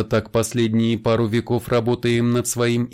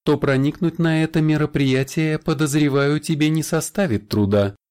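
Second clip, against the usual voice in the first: higher, amused smirk in the voice; smirking vampire; 5 semitones higher, 3 dB louder than usual. Acted. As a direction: say it with a knowing smirk. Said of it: "с усмешкой сказал вампир". (с усмешкой)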